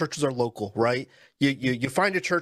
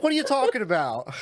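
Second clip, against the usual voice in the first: mock Brooklyn tough guy; 8 semitones higher than usual.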